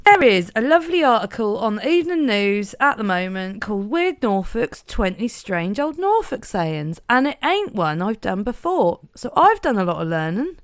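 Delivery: put-on broad Norfolk accent; chatty Norfolk accent. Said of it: "You're just warming up your Norfolk accent".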